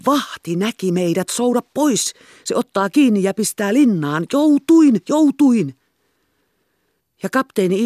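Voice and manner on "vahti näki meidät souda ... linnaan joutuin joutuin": high urgent cry, building to a loud shout; panicked shout. A narrator's reading. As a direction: raise pitch and volume as the alarm grows. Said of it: "hän huusi".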